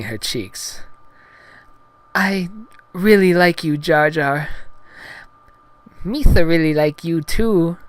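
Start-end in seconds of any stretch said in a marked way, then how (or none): 2.1-4.5 high, halting heroine falsetto; Padme, bashful. Acted. Blushing heroine confesses to Gungan, high halting falsetto. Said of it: "She looked away from him". 6.0-7.8 high, loud lisping alien voice; Jar Jar Binks. Acted. Gungan returns heroine's affection, high loud lisping voice. Jar Jar answering Padme's confession.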